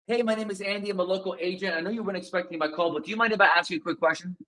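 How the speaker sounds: fast, pushy run-through of the opener; rushed script read. Shown as a demonstration. Coach demos a rushed cold-call opener to a seller. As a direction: rattle it off like a script. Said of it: "Very different than".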